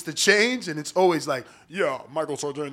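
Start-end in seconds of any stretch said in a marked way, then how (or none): 1.7-2.7 low, soft mock radio voice; understated radio-voice impression; Michael Sartain. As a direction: lightly imitate a radio-host voice. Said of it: "That radio voice is always there".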